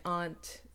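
"aunt" with an open ah; pronunciation demo. Shown as a demonstration. Speaker showing how it depends, "aunt" as ahnt. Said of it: "I feel like it depends".

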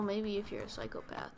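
whisper. Real, not acted. Joking aside to friend.

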